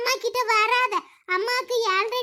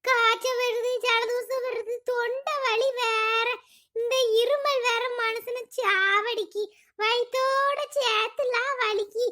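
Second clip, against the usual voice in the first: slow, ailing self-pity; ailing lament. Acted. Sick mother laments her body pain alone, ailing and slow. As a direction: drag out the aches wearily. Alone, groaning over aches and fever.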